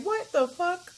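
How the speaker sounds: high, stunned "What the fuck?" with a rising end; shocked disbelief. Retold or imitated. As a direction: blurt it out in retold shock. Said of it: "I was like".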